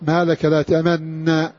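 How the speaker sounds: تأمن with a plain doubled nun, no rounding, slow; إدغام محض بدون إشمام; pure idgham. Shown as a demonstration. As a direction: say تأمن as tamanna, with no lip rounding at all. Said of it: "قلنا قراءة أبي جعفر".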